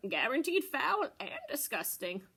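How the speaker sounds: proud salesman pitch; lightly voiced little goat vendor; Pygmy Goat voice. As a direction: sell the rotten eggs with pride. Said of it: "he told Mister Goat".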